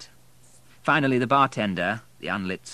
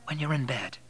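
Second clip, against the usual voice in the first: lightly spoken, slightly higher; easy, unforced reply; 6 semitones higher than usual. A narrator's reading. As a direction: humour him lightly. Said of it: "said Kate lightly".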